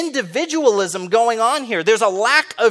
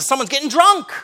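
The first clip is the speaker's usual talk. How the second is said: put-on questioning lift onto DRUNK; stress on DRUNK; 5 semitones higher than usual. Shown as a demonstration. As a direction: hit DRUNK as the suspected problem. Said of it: "put the emphasis on a different word".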